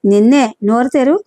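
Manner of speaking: mild stern father repeating his order; insistent repeat. Acted. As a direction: press her to open up, a bit firmer.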